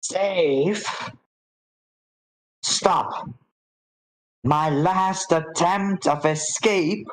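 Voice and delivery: high-pitched voiced reading aloud; botched whisper. Reader fails to read a secret note discreetly, high botched whisper. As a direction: read it out high, puzzled by the words. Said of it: "So he whispers".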